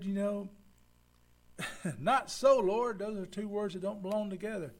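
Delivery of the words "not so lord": high, loud "Not so, Lord"; protesting Peter. Retold or imitated. Peter loudly rebuking Jesus, high and loud. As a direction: blurt it out in protest. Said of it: "went to the Lord and said".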